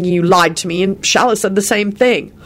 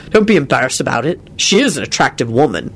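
low, grudging admission; mildly begrudging tone; 4 semitones lower than usual. Acted. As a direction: concede it reluctantly. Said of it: "he said grudgingly".

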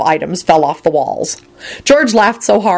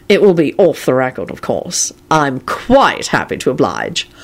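Kingsley voice; 3 semitones lower than usual. Acted. Kingsley's voice continues.

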